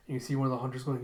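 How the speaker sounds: usual speaking voice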